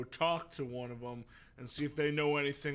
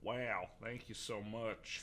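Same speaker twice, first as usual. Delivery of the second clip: mildly grateful, slow and softer; gracious; 2 semitones lower, 5 dB quieter, slower than usual. Acted. Steve thanking the Enderman at the fortress, gracious. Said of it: "Steve says graciously".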